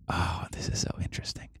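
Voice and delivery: soft late-night whisper. Real, not acted. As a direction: murmur it under your breath.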